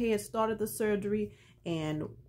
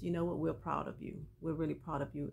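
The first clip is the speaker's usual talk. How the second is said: sincere pride; 4 dB quieter than usual. Retold or imitated. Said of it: "looks at him with sincerity".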